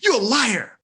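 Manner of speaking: mock-angry slowed shout of blame; mad accusation. Angry friend accusing Don of lying. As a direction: hurl the accusation in anger. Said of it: "They get mad and say".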